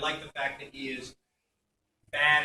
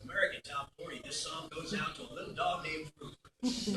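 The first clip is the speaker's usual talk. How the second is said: softer radio countdown host impression; Casey Kasem; 7 dB quieter than usual. Shown as a demonstration. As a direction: introduce it like a radio DJ. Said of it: "I was doing my Casey Kasem".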